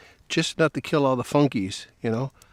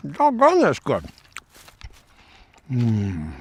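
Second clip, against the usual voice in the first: delighted exclamation; slower than usual. Real, not acted. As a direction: blurt it out, thrilled by the taste. Tasting steak, delighted.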